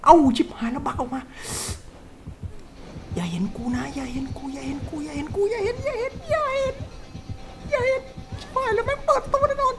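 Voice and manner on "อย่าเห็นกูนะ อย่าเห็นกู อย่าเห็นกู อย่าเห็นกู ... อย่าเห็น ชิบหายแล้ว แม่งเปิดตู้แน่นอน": frightened hushed pleading. Real, not acted. Hiding in locker from killer.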